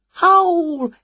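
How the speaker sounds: high, drawn-out howl; howling word. A narrator's reading. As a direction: stretch the word into a falling howl. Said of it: "came a noise from the woods".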